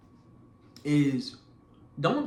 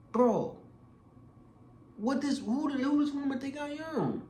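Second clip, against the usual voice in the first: incredulous inner voice; 10 semitones higher than usual. Retold or imitated. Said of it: "I'm like".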